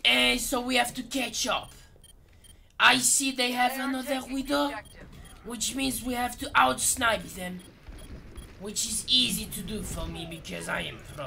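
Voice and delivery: mock-French match commentary; French-accented cocky tutor; put-on French accent.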